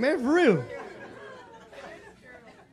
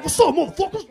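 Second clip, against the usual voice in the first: mock gangbanger; 7 semitones higher, 6 dB louder than usual. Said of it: "they be like".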